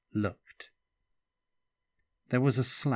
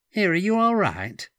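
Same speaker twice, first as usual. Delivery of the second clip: high, loud worried call; alarmed call; 11 semitones higher, 9 dB louder than usual. Acted. Woman calling out in alarm.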